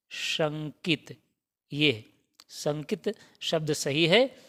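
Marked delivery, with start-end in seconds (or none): 0.1-1.2 drawn-out शंकित, each syllable clear; teacher modelling शंकित slowly; slow clear model word. Shown as a demonstration. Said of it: "क्या होता है सही?".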